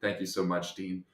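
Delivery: soft, low polite thanks; gentle smiling thanks. Retold or imitated. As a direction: thank him quietly with a smile, voicing the panel. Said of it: "they all smile at me".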